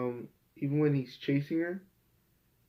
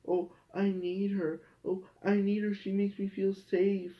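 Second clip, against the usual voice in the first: mocking clingy Catra; 5 semitones higher than usual. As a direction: parody a lovesick character, dragging the words. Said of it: "They made them".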